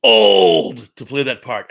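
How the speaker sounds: put-on old to play that part sobbed out loud and slow; mock sob. Guest defending Yentl at the party, hammed-up sob. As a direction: wail it like a hammed-up cry. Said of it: "And the guy's like".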